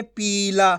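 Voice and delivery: पीला with a long final aa; drawn-out ending. Shown as a demonstration. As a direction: stretch the ला in पीला. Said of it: "खींच के पढ़ देंगे".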